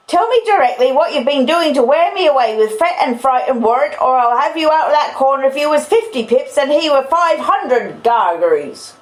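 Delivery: high, loud, relentless tirade; angry sister's shouted threat; shouty scolding. Acted. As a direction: scold at full shout, pitch way up. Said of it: "I always thought she'd be quite shouty".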